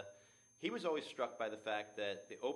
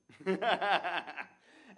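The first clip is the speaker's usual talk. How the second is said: laughing; 9 semitones higher, 12 dB louder than usual. Real, not acted. Laughs at the audacious prologue.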